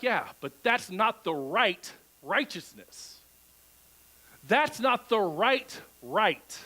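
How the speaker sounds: slow, drawn-out correction; James correcting. Retold or imitated. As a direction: patiently set them straight. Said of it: "And James would be like".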